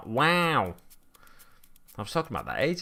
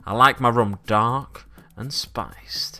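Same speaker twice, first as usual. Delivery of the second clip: slow seductive whisper; slower than usual. Acted. Streamer to chat, whispering a sultry line about rum. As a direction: breathe it out slowly, suggestively.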